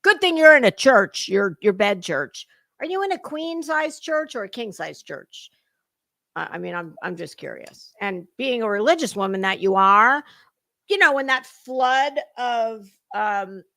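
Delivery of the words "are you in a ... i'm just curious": sly whispered jab, then trailing off softer; teasing whisper. Real, not acted. Commentator whispers a jab at the streamer in bed. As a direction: breathe the teasing question like a secret.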